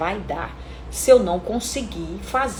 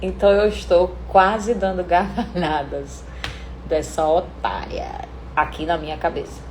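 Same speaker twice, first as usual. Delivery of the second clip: gloating inside; 5 semitones lower than usual. Shown as a demonstration. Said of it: "já armei pra cima dela".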